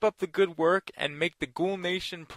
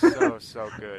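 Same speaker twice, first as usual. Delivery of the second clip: drawn out emphatic; 6 semitones higher than usual. Real, not acted. Emphatic repeat of praise.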